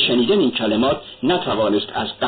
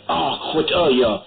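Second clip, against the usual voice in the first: cry out; 3 semitones higher, slower than usual. Acted. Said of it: "پولیشری فریاد زد".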